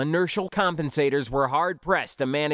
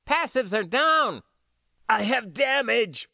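urgent crew call-outs; 8 semitones higher than usual. A narrator's reading. Crew shouting damage reports.

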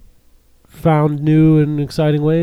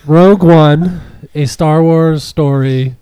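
slow, louder, laughing through it; laughing title read; 6 dB louder, slower than usual. Shown as a demonstration. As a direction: restart the title while laughing. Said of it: "My, my tweet is all messed up now".

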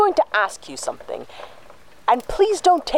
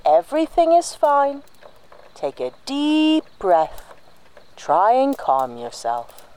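soothing; 5 semitones higher than usual. Acted. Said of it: "I'm not a child".

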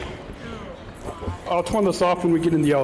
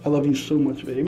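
sweet nothings; 3 semitones lower than usual. Real, not acted. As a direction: say it gently, just for her. Loving words repeated.

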